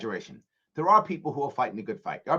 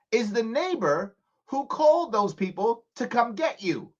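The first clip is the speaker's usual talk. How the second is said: raised, higher, passionate retelling; heated retold reply; 6 semitones higher than usual. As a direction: press the point hard to the caller. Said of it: "I said".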